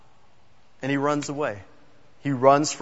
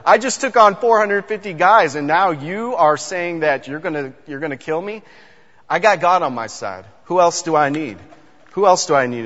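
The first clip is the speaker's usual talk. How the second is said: cocky Elijah. Retold or imitated. Preacher imagining Elijah brushing off Jezebel, lightly cocky. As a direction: shrug off the threat with a scoff. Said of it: "I can see Elijah be like".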